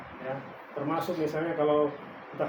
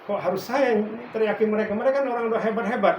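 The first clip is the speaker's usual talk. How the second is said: pleading protest; 4 semitones higher, 5 dB louder than usual. Retold or imitated. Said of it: "saya bilang".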